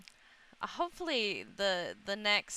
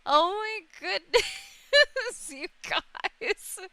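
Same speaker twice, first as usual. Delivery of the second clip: overwhelmed; 9 semitones higher, 6 dB louder, much slower than usual. Real, not acted. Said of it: "I'm so overwhelmed".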